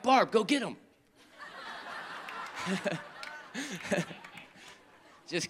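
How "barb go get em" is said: joking to wife. Retold or imitated. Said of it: "I would say to my wife".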